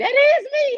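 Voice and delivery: put-on crying voice. Retelling hearing self on the radio for the first time: imitating own crying. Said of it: "I started crying like".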